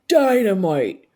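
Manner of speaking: drawn-out celebratory exclamation; delighted dad. Retold or imitated. Father hearing daughter's SNL news, delighted exclamation. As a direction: imitate a proud dad's burst of delight.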